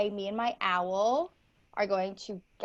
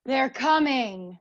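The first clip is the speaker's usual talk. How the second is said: slow foreboding line; ominous warning; 5 dB louder, slower than usual. Acted. Judge warning of the approaching army, slow foreboding. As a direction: warn of doom, slowly. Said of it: "Greek tragedy".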